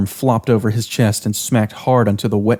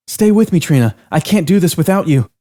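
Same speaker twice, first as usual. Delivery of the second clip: higher, urgent plea; pleading; 7 semitones higher than usual. Acted. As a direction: hold your friend together. Cassie begs friend.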